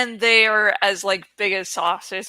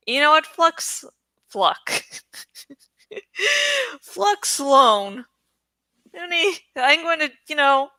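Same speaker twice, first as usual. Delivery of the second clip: Aragorn scheming, laughing; 4 semitones higher than usual. Retold or imitated. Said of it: "he starts like".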